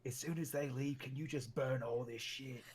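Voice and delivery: low-volume conspiratorial murmur; soft, furtive in-character aside; whispering aside. Acted. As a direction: keep it hushed, a secret request to an ally. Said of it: "gonna whisper to Daythorn".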